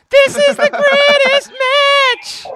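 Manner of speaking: slow, drawn-out announcer voice; mock announcer. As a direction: stretch it out like a ringside caller. Mock announcer stretching words.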